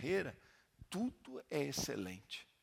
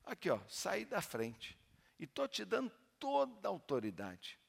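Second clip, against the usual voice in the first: pastor's challenge; 6 semitones higher than usual. Retold or imitated. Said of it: "Eu falei assim".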